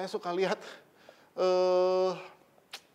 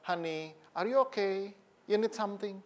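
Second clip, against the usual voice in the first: imitated affectionate husband; 3 semitones higher, 4 dB quieter than usual. Elderly husband checking on his wife, imitated tenderness. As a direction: check on her gently, unhurried. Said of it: "masih mesra suami istri".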